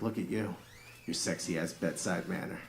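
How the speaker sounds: low, soft sultry murmur; soft seductive. Retold or imitated. Husband sick in bed, softly flirting with wife. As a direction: purr it to her. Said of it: "I was like".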